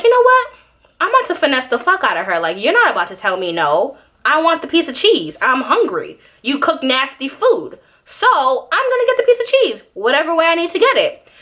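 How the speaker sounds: high, excited little schemer; scheming kid. Retold or imitated. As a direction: plot it like a greedy child. Kid scheming to get cheese.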